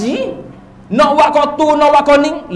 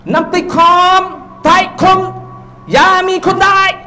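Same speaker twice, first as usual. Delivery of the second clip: put-on possessed girl speaking Siamese; 7 semitones higher, slower than usual. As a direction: voice the spirit speaking through the child. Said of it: "lalah cakap siang".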